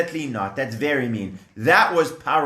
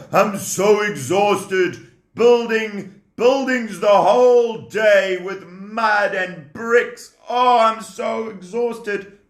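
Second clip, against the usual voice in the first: exhausted sigh; 5 semitones higher, slower than usual. Acted. Worn out slave complaining.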